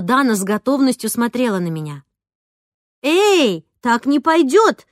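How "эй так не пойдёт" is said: loud, high, drawn-out protest; indignant teacher calling a halt. A narrator's reading. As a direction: object indignantly, raised voice. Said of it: "возмутилась я".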